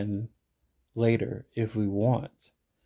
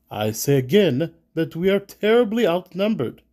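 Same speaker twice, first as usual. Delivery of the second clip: raised, high-pitched objection; insistent; 7 semitones higher, 6 dB louder than usual. A narrator's reading. Reginald warning they are outnumbered, insistent. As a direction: insist emphatically, louder and higher.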